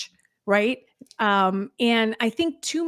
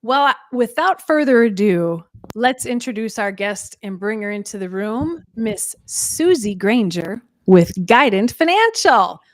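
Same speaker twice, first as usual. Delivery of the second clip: présentation d'invitée; 5 dB louder than usual. Real, not acted. Host introducing the guest.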